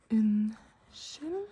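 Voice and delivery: "Unnskyld" drawn out, with an sh in the middle; teaching pronunciation. Shown as a demonstration. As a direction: say "Unnskyld" in separated syllables, in-shill. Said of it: "this is an sh sound".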